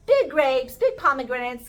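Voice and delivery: loud, punched listing; emphatic marvel. Acted. Describing the scouts' enormous fruits, loudly emphatic.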